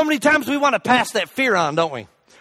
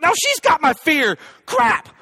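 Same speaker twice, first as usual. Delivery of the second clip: mock dismay; 5 semitones higher, slower than usual. Retells his dismayed reaction to nurse.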